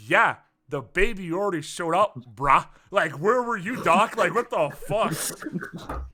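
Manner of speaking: loud, sassy and slowing at the end; sassy nurse. Retold or imitated. Nurse mocking the doctor who missed the birth, sassy. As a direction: scold the late doctor with attitude. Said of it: "giving him such attitude".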